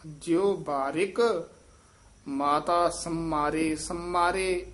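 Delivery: slow demo pressing the mm in ਸੰਮਾਰੇ; ਸੰਮਾਰੇ slightly tightened. Shown as a demonstration. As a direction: hold the doubled m of ਸੰਮਾਰੇ. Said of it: "ਥੋੜ੍ਹਾ ਜਿਹਾ ਕੱਸ ਕੇ ਉਚਾਰਨ ਕਰਨਾ ਹੈ".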